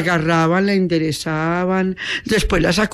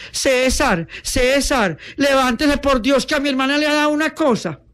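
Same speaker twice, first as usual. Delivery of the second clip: high-pitched urgent call for help; crying out; 8 semitones higher than usual. Acted. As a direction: call him out of bed in alarm. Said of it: "golpea la del bogotano y grita".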